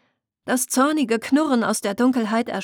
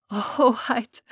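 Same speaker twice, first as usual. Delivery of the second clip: put-on young selkie woman greets her lost princess with a light sob; sobbing selkie woman; 3 semitones higher than usual. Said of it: "schluchzte sie".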